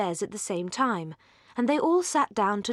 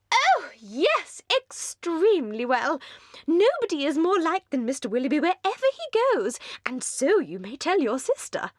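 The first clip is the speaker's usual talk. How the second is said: very high, louder, breathless society chatter; giddy young lady; 8 semitones higher, 3 dB louder than usual. Acted. Mrs Palmer gushes at the Dashwood sisters, very high and giddy. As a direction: gush like a merry, empty-headed hostess.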